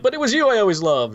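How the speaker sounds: mock declaration of love; imitated love declaration. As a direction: play the lovestruck heroine, hammed up. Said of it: "she's like".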